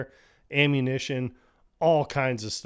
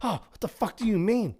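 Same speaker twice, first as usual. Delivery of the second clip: mock exasperated; 9 semitones higher than usual. Brother complains in vent.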